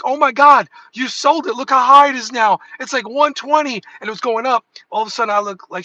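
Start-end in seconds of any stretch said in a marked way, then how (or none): 0.0-3.8 higher, louder mock wife voice; imitating wife. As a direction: scold like a wife who thinks he sold too early. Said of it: "my wife was like".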